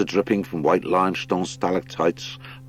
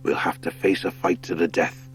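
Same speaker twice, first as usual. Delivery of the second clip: badger lord. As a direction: lead them through like a big old lord.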